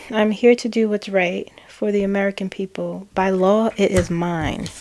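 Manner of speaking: stern, serious and exasperated; intimidating. Retold or imitated. Voicing Kamala's message with intimidating resolve. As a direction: lay down the law, intimidating. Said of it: "intimidating Queen of Wands energy".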